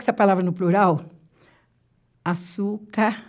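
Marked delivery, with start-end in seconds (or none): 2.2-3.2 açúcares said softly in parts, a-çú-ca... res; slow, quiet açúcares, split as if writing it; broken into syllables. Shown as a demonstration. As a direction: softly dictate açúcares with a pause before res.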